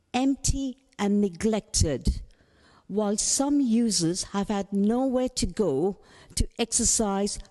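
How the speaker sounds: deliberate read-out with pauses between phrases; measured public reading, halting between phrases; reading slowly. Real, not acted. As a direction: read the statement out carefully, phrase by phrase. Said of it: "I'll have to read it slowly".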